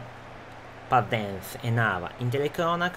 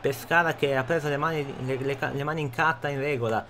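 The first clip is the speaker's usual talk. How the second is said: breathless italian goal commentary. Acted. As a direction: call the crossbar hit live. Live play-by-play, traversa chance.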